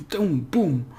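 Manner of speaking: "Doom, boom." with the boom hit hardest; two quick punches of sound; punchy sounds. Shown as a demonstration. Teacher voicing the accent's punch, playful. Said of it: "It's like".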